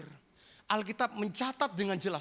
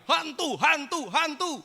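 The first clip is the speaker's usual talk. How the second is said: higher, louder, slow mock yell of fear; mock panicked shout; 10 semitones higher, 7 dB louder, slower than usual. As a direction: cry it out like scared disciples. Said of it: "semuanya teriak". (teriakan panik pura-pura)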